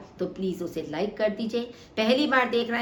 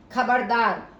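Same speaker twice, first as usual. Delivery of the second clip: खबरदार called out louder, falling at the end; warning shout; 4 dB louder, slower than usual. Shown as a demonstration. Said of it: "चेतावनी बोधक". (खबरदार चेतावनी भरे ऊँचे स्वर में)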